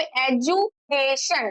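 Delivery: एजुकेशन slowly in pieces, "edu, ke, shan"; broken into syllables. Shown as a demonstration. Teacher counting four syllables in education, slow and broken up. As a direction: break up एजुकेशन with short pauses. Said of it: "four बार हमारा sound break हुआ".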